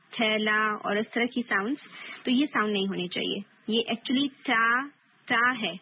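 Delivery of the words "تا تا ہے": تا with a strong tongue-tip hit and a clean puff of air; firm ت in تا; crisp تا; correct taa demo. Shown as a demonstration. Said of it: "آپ اس کو تا بولیں گے".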